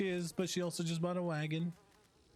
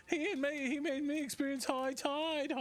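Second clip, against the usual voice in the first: higher mock British voice; British accent; 9 semitones higher than usual. Quoting SpongeBob in a higher mock British accent. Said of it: "works with a British accent".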